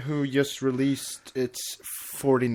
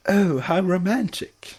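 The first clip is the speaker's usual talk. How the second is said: dreamy sigh; 7 semitones higher than usual. A narrator's reading. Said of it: "Rarity sighed".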